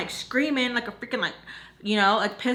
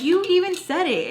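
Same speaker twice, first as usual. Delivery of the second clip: high, louder comeback; mock-outraged protest; retold indignant retort; 9 semitones higher, 5 dB louder than usual. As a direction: argue back in a raised pitch. Retold quarrel, arguing back.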